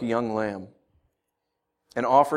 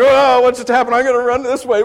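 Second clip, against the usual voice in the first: higher, louder, confused cat voice; hammed-up bewildered cat; dizzy cat; 8 semitones higher, 8 dB louder than usual. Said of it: "So it's like".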